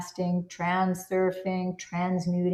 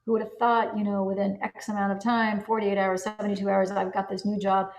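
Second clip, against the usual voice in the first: excited news to a friend. Pretend. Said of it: "having a conversation with your best friend".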